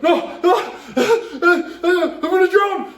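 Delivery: high, slow, laughing shout; high giggly yell of fake doom; laughing panic yell. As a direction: cry out through hysterical laughter. Tripping, imagining drowning in pee.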